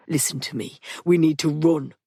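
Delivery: lightly voiced Patrick, pressing; urgent low command. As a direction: get her moving.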